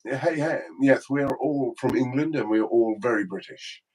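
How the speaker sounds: put-on, very English voice; very British accent. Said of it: "I don't know how you hear us".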